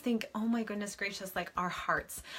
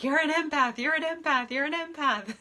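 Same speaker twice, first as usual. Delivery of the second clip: excited greeting; 8 semitones higher, 5 dB louder than usual. Retold or imitated. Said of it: "I'm like".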